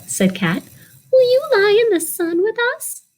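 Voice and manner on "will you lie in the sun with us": much higher cat invitation; storyteller voicing a cat, high. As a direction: purr the invite like a sunny cat. Cat speaks in picture book.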